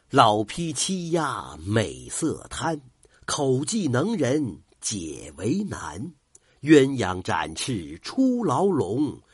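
slow, measured verse recital; poem recital. Acted. Storyteller closing the tale with a poem, slow recital. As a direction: intone the closing couplets slowly.

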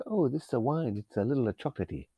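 lightly put-on, shoddy European accent; bad European accent. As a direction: fake a European accent, badly. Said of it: "how's that for a shit accent?".

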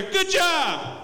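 high, bright-voiced cheer of praise; cheerful praise. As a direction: cheer him on like a coach. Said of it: "give me, like, a".

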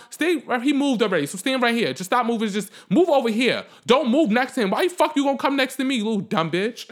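mock parental scolding turning to insult; acted scolding. Telling a child to stop moving next to him, acted scolding.

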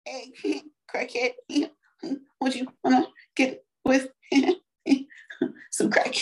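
halting rapper voice with little laughs; impression of a famous rapper. Talking dirty to a crackhead, halting rapper impression. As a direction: lightly imitate a rapper, in short bursts. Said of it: "I'm killing it with the Jay-Z".

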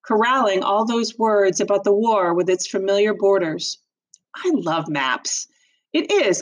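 expressive read-aloud narration; story narration. A narrator's reading. Teacher reads novel aloud.

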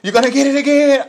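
loud, high officer warning; mock shouted threat. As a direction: threaten her over the commotion. Acted officer threatening taser.

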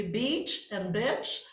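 slow "beach" with a long vowel, "bitch" short; careful vowel contrast at half speed. Shown as a demonstration. Teacher naming the awkward vowel pair: slow, careful contrast. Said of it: "questões problemáticas".

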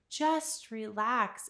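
coaxing. Retold or imitated. Retold plea to restless husband.

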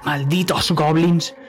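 mock the thief as a dragon; scornful dragon voice. Dragon scolds the goblin.

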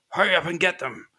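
a half-voiced angry dwarf hurrying his gang; dwarf yelling, no accent. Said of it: "except in the accent that all dwarves have to speak in".

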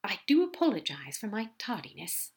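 mildly put-on contrition; insincere apology. Aziraphale apologising to Gabriel, mildly insincere. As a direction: apologise politely without meaning it. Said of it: "not really meaning it".

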